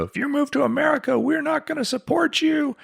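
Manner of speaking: high put-on parent voice; strict parent voice. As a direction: speak as a stern parent, pitched high. Voicing his disapproving parents.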